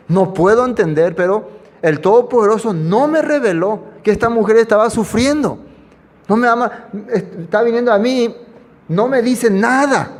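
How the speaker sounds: lightly voiced bewildered prophet, slowing at the end; a hint of a confused Eliseo pleading with God; Eliseo's lament.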